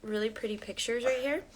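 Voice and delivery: hushed and tender with her son; soft mom voice. Real, not acted. Softly talking to her son.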